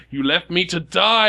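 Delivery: high, half-held mock scream; screaming accusation. Burning boy closing in on the Doctor, mock screech. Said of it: "he starts screaming and screeching at you".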